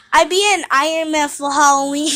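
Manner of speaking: put-on loud baby-talk kid voice; lisping little brother; whiny tattling little sibling. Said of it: "no, no, it's".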